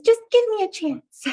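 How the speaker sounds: high, small muskrat voice; squeaky little muskrat pleading; tiny muskrat voice. Acted. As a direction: make yourself sound tiny but brave. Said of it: "always do these little voices".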